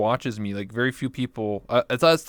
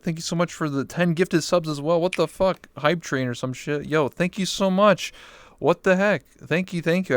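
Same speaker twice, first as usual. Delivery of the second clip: excited thanks; 5 semitones higher than usual. Real, not acted. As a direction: gush over the surprise gift. Reacting to second ten gifted subs.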